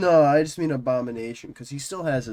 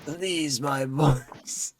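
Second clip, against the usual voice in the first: from another room; 3 semitones higher, much slower than usual. Acted. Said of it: "This is loud as you can speak".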